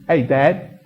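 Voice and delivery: put-on boy's common British accent. Boy asking his dad at table, in common British accent. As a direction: imitate a lad's slangy British speech. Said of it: "the boy says".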